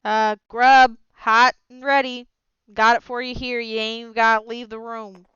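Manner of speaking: put-on loud, a touch of Gerald's drawling accent; mimicking his accent. Captain at Gerald's door, mimicking his accent loudly. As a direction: poke fun at his accent lightly. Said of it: "mimics his accent a little".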